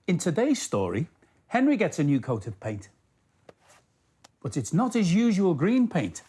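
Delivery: put-on gentle, lively read-aloud for small children; children's story narration; storybook narration. A narrator's reading. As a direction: tell the story to kids at bedtime. Reads a Thomas story to children.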